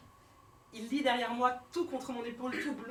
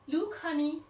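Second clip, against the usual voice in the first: mock American mom, pointing at worker; put-on American accent, lecturing; a lightly voiced American tourist mother; 6 semitones higher, 5 dB louder, slower than usual.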